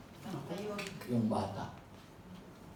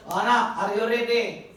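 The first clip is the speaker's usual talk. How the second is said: put-on louder call up to the child; 4 semitones higher, 5 dB louder than usual. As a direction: call up to the son in the tree. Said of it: "father calling up".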